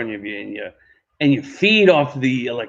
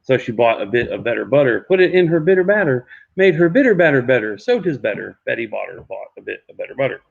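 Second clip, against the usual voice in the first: tongue twister recited; 5 semitones lower than usual. Shown as a demonstration. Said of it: "Yes, that's what I just did".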